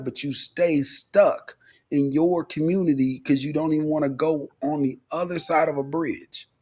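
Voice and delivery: ordinary delivery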